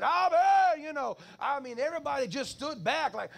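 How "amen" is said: put-on loud, high Hispanic-accented amen; Hispanic accent shout. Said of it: "that Hispanic accent".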